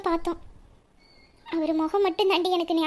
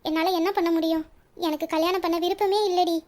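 softly crying out the truth to her friend; quiet, teary voice, holding back sobs; tearful confession; 3 dB quieter than usual. Acted. Nila admits to Valli she doesn't want the marriage, tearful. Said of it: "ஏன்டி நிலா அழுவுற?".

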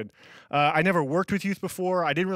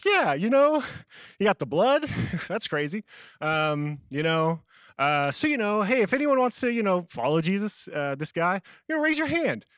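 a sweaty disaster stumbling through an altar call; awkward fumbling; 3 semitones higher than usual. Retold or imitated. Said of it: "How it really came out".

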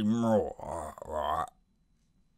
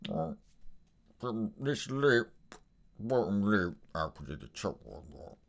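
low, soft Cockney growl; low quiet Cockney menace; Alfie Solomons impression; 10 semitones lower, 8 dB quieter than usual. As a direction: sink deep and quiet into menace. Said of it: "the face that I like to embody when I'm doing Alfie Solomons".

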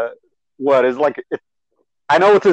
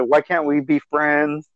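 epic speech. Retold or imitated. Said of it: "his epic speech".

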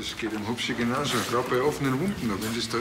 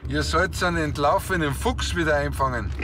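calling over radio; 5 semitones higher than usual. Acted. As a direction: raise your voice to reach him over the radio. Calling colleague over police radio.

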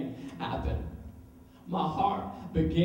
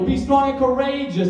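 a firm, louder charge to be brave; firm encouragement; 6 semitones higher, 8 dB louder than usual. Acted. God encouraging his son, firm charge. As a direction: urge him on steadily. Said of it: "didn't I tell you?".

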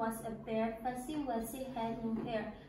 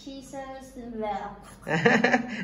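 louder, rushing the words; louder and faster; 9 dB louder, much slower than usual. Shown as a demonstration. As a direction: push it out louder. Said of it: "louder and faster".

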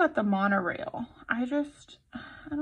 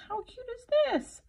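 overwhelmed by cuteness; 13 semitones higher than usual. Real, not acted. Gushing over cute kit.

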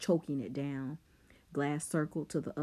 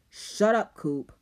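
angry snap; 5 semitones higher, 8 dB louder than usual. Acted. Rob snapping at friend.

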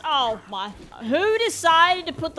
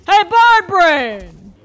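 drawn-out, much louder taunt; slow taunting call; 4 semitones higher, 11 dB louder, slower than usual. Real, not acted. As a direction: call out the enemy mockingly. Taunting an enemy.

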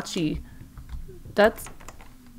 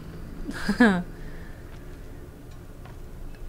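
nervous laugh; 6 dB quieter than usual. Real, not acted. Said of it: "that's my nervous laugh".

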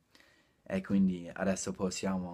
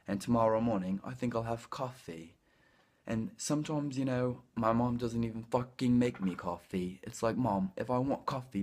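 British accent. Shown as a demonstration. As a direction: put on a British English accent, chatty and brisk. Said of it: "I'll start the British accent right now".

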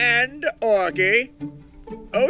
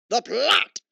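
hushed dramatic whisper; 2 semitones lower than usual. Acted. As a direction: breathe it like a secret. Dramatic reveal of the plot.

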